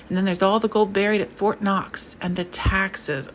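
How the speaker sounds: lightly voiced pompous old conservative; a hint of a fretting rich old man; a mild fussy old gentleman alarmed at the times; older conservative. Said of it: "An older voice, conservative".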